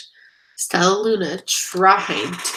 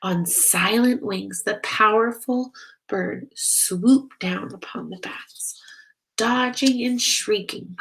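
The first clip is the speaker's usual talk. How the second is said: gentle read-aloud storytelling voice; story narration; 2 semitones higher than usual. Acted. Narrator reading a bat story to children, gently. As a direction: read it like a bedtime picture book. Reads picture book aloud.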